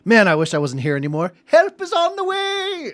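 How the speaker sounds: a hint of a weary old man; old guy voice. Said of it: "you just hear some old guy".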